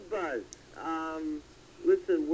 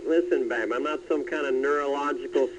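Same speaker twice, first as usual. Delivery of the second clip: Dennis Miller impression; 3 semitones lower than usual. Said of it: "Like Dennis Miller would say".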